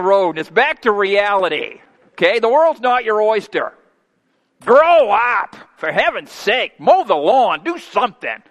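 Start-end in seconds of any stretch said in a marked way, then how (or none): 4.6-8.4 mock scolding. Preacher mocking a spoiled child.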